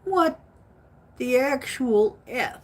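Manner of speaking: high-pitched disbelieving what; baffled outburst; incredulous. Real, not acted.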